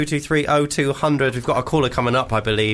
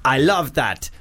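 hammed-up mock Arabian accent, higher; 3 semitones higher than usual. Host reading a listener email in a jokey Arabian accent. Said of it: "an Arabian accent".

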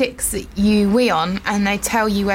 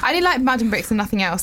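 quicker go at a Welsh accent; faster than usual. Shown as a demonstration. Restarting the brick eater's quote for her co-host in a quick Welsh accent. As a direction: have a brisk stab at Welsh. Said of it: "let's try it in a Welsh accent".

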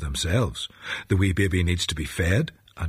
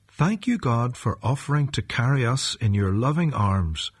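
praying. Acted. Leads a short prayer.

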